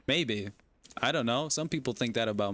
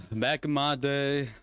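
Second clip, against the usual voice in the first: put-on Texan accent. Older parent to a future child, pretend Texan accent. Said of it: "pretend I have a Texan accent".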